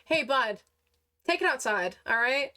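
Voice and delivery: mild firm warning out loud. Acted. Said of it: "be like".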